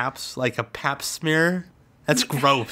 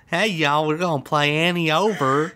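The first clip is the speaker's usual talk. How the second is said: mock Southern accent. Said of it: "you get all into this accent here".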